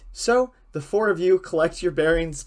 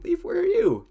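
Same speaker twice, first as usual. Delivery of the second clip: imitating a player; 5 dB louder than usual. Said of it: "if you're wondering".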